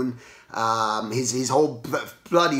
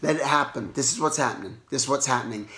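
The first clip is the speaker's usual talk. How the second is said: calming self-talk; 4 dB quieter, faster than usual. Retold or imitated. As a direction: talk yourself down quietly. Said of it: "it just calmed everything down".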